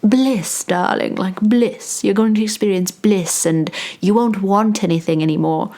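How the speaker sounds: lightly condescending know-it-all; patronizing. Acted. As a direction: put on a condescending 'darling' tone. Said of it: "almost patronizing to be like".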